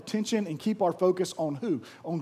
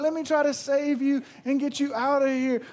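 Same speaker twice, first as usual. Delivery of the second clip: higher-pitched mock-sweet rescue offer; imitated cooing; 7 semitones higher than usual. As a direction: mimic someone fussing over a little pet. Amanda promising to rescue the spider.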